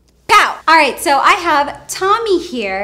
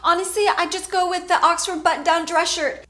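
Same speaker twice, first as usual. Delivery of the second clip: mock pleading; 6 semitones higher than usual. Pleading with imagined captor.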